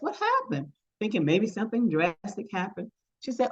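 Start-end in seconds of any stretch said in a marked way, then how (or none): 0.0-0.7 incredulous question. Retold or imitated. Counselor acts out confronting the student.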